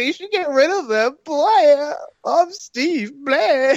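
very high, loud, drawn-out put-on voice. Retelling what a co-host said on a show: imitating Steve. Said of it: "your Steve impersonation? Spot on".

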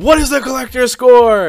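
acted-out yell. Speaker pictures himself interrogating men in a warehouse, retelling a yell. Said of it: "yelling like".

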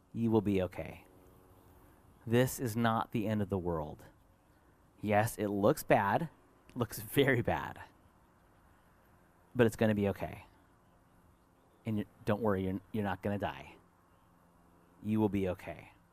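soothing, steady, calm, gentle, very low voice. Father retelling how he reassured his bleeding daughter, retelling a calm, gentle reassurance. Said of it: "I spoke calmly and gently".

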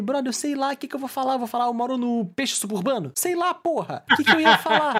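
fed up, pitched high and loud.

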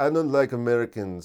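loose, attempted French accent. Imitating a French guy who says he dislikes Americans: attempted French accent. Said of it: "I don't know if that was a French accent".

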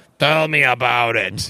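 slow, drawn-out cab driver voice. Retelling a cab ride, the driver turns around to answer: Home Alone 2 cab driver voice. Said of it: "he sounded like the fucking cab driver in home alone 2".

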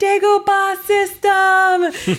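mock shouting. Retelling what they shouted up to a tall friend up high, retelling a shout. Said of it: "I was like shouting like".

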